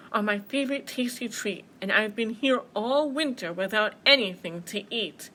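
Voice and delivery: lightly boomed bear voice; a touch of big hungry bear; booming bear. Acted. Hungry bear claiming a treat, mildly booming. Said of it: "boomed the bear".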